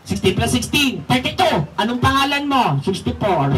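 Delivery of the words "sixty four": laughing. Real, not acted. Dummy answers name wrongly, laughing.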